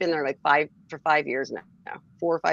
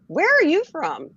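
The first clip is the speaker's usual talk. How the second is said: put-on British accent; 11 semitones higher, 4 dB louder than usual. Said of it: "the girl's voice changed".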